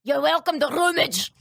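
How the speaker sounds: lightly voiced Scottish shopkeeper; put-on Scottish accent, halting; bad Scottish accent. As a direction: imitate an unhelpful Scottish clerk. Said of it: "That was a bad accent".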